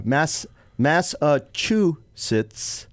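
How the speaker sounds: "Massachusetts" broken slowly into syllables; careful pronunciation. Shown as a demonstration. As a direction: sound out "Massachusetts" piece by piece. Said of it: "the other word".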